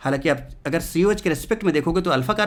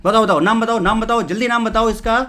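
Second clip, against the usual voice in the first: urging quiz call; 4 semitones higher, 5 dB louder than usual. Acted. Teacher pushing class for answer.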